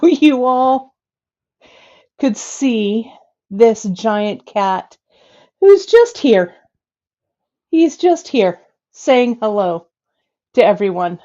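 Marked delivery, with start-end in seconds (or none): 5.6-11.2 straining while holding a heavy cat; breathless from lifting; out of breath. Real, not acted. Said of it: "I'm getting winded".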